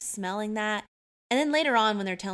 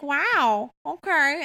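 higher, hammed-up wowed dad; exaggerated impression; 6 semitones higher, 4 dB louder, much slower than usual. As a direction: overdo it, with "okay" twisted into "okaaar". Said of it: "he doesn't talk like that at all".

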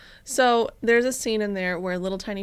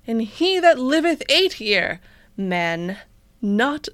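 mock old-timey reading; 3 semitones higher, 5 dB louder, slower than usual. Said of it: "Read it in the Brooklyn accent".

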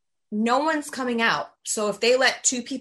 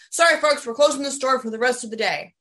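manager announcement; 3 semitones higher, 4 dB louder than usual. Retold or imitated. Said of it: "he goes".

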